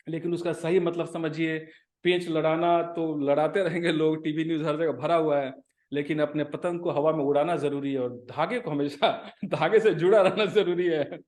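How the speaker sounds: rapid-fire Hindi, rushed; fast. Real, not acted. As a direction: rattle it off very fast. Rapid Hindi festival message.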